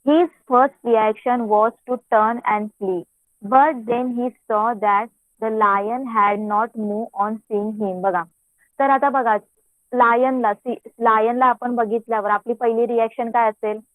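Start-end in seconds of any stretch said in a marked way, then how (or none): 0.1-8.0 reading the story aloud very slowly, word by word. Acted. Teacher reads the English story to her class in a slow reading voice. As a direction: read each phrase out slowly so the pupils can follow.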